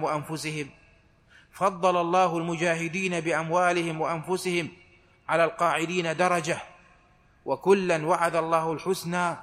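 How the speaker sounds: تلاوة قرآنية هادئة; measured Quran recitation. Acted. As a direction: intone the verse reverently, phrase by phrase. Full verse recited.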